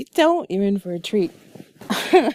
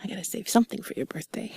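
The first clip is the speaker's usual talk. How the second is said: sultry narrator; 2 semitones lower, 4 dB quieter than usual. Acted. Whispered intimate chat continues.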